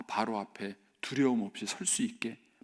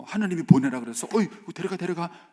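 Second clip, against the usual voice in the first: grudging Pharaoh; 4 semitones higher, 8 dB louder than usual. Acted. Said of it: "이렇게 말을 해야 맞죠".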